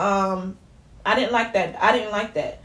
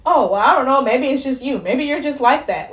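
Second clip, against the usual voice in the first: higher-pitched mimicry of unhelpful staff; mock dismissive; 4 semitones higher than usual. Mimicking doctors who blamed her, mock dismissive. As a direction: imitate a brush-off, raised in pitch.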